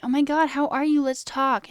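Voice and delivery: a touch of fake cheer; mock friendly. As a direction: imitate eager friends. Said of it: "be like".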